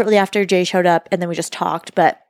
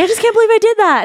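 mock disbelief; 12 semitones higher, 4 dB louder, faster than usual. Imitating salad boy's disbelief.

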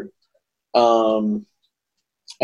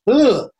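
disgusted ugh; 9 semitones higher, 3 dB louder than usual. Real, not acted. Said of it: "it's hard to watch".

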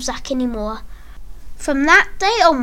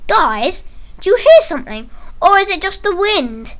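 higher, teasing call to the group; 6 semitones higher, 3 dB louder than usual. Acted. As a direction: call out in mock wonder, pitched up. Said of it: "I called out to the other boys".

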